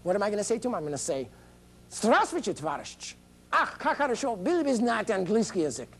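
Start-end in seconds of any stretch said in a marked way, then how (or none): 1.9-5.9 mock Russian greeting. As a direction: hail the comrade in hammed-up Russian. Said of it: "a big rap in Russian for you".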